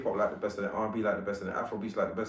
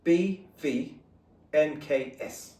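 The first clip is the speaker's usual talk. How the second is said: put-on light London accent, mate. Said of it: "London accent?".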